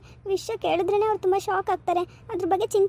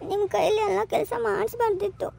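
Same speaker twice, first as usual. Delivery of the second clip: crying. Acted. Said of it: "ಅಳ್ಬೇಡಿ, ಹೋಗ್ಲಿ ಬಿಡಿ".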